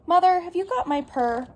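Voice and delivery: high-pitched questioning call to mother. A narrator's reading. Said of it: "to call out her question".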